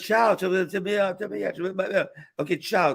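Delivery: mock offhand phone sign-off; dismissive. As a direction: lightly act out a busy boss ending a call.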